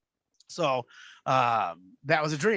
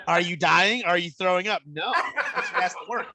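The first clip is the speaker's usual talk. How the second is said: mock stern mom through laughter; laughing mom impression; 2 semitones higher than usual. Son retelling mom's order, laughing mock scold. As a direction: bark it while laughing.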